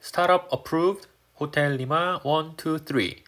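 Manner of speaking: very slow pilot readback, rising at the end; radio readback. Shown as a demonstration. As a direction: read back the clearance slowly and clearly. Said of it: "리드백 안 해도 된다는 거 기억해 주시고".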